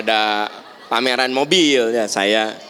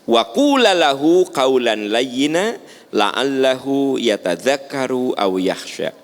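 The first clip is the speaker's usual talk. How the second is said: Quran recitation. Shown as a demonstration. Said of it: "dijelaskan di surat Toha".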